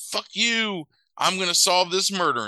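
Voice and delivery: high, emphatic retold retort; acted-out indignant outburst; mock defiance. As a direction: throw it back before hanging up.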